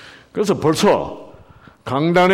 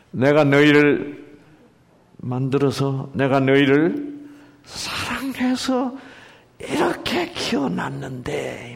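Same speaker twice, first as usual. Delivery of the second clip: tender parent; slower than usual. Acted. Preacher voices God's words.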